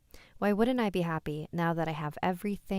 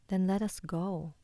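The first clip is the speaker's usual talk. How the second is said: ghostly mother; 2 semitones higher than usual. Acted.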